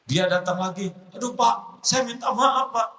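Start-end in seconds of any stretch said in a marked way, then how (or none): 1.1-2.9 meek apology. Acted. Biker apologizes in high voice.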